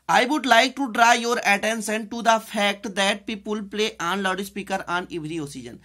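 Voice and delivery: very slow, spaced reading of the sentence; slow dictation. Shown as a demonstration. Teacher reading the full sentence to class, slow. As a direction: read the line out for students to copy.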